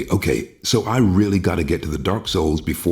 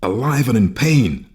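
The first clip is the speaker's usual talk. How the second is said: high, urgent cry of distress; jolted by a vision of a brother in pain; alarmed, distraught; 8 semitones higher than usual. Acted.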